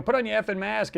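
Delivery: high, heated demand; mock angry yell. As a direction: snap it like a furious passenger. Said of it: "trade of languages going back".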